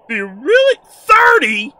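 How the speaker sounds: high, loud disbelief with a laugh; stunned, voice leaping up; incredulous. Real, not acted. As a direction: burst out in amazed questioning. Startled by the spirit count.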